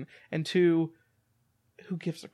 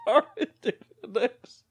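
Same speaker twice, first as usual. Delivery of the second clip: mock Cockney; 6 semitones higher than usual. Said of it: "my Cockney".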